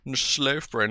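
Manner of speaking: "sloth" with a long o, as in "both"; "sloth" said with an "oh" vowel. Shown as a demonstration. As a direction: say "sloth" to rhyme with "growth". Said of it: "not sloth".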